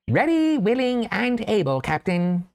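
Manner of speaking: high, bright little mouse salute; eager mouse voice. Acted. Mouse eagerly accepts the task.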